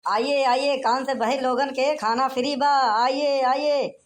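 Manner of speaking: street hawker's rolling patter; calling out to passers-by. Acted. Food-stall host inviting the deaf to eat free, calling out. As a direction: keep the invitations coming in a chanting call.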